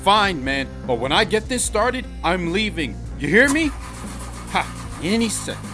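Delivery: soft, low grumble; grumbling. Acted. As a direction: mutter to yourself. Grumbling while starting.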